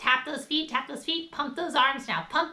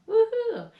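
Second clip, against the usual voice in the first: whoop; 13 semitones higher, 7 dB louder than usual. Real, not acted. Cheering the success.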